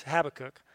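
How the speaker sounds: "Habakkuk" as plain HAB-uh-kuk; front-stress "Habakkuk", short last syllable; supposedly funny pronunciation. Shown as a demonstration. Preacher citing the so-called funny way, front-stressed. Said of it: "here's a really funny way to say it".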